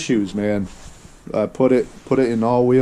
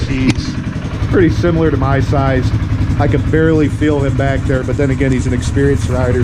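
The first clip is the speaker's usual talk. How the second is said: raised voice over the engine noise; talking over engine; 3 dB louder than usual. Real, not acted. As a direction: speak up over a running motor.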